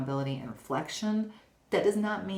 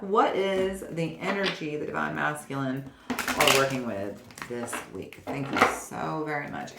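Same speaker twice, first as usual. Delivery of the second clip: invocation. Acted. Invocation while shuffling.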